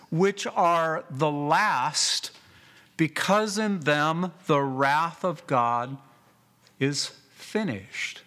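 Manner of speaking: slow, weighty scripture reading; emphatic reading. Shown as a demonstration. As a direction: lean on every word of the verse. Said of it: "in the original language emphatic".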